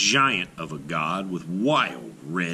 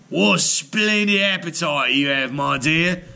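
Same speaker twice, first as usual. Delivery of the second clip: fondly; 6 semitones higher, 3 dB louder than usual. A narrator's reading. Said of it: "he said fondly".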